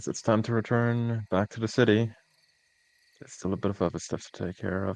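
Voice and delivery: defeated, worn-out, beaten-down voice. Voicing a character who says it's time to return to the city: defeated tone. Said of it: "the defeated sound of".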